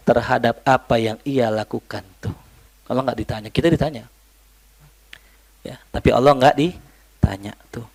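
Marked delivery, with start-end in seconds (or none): 5.6-7.9 whispered aside. Real, not acted. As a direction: murmur it under your breath to the class. Aside to students.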